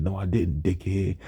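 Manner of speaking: understated comeback without emotion; lifeless monotone. Retold or imitated. Teased student who couldn't really respond, lifeless monotone. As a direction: say it with no life at all. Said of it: "talk with life or emotion at all".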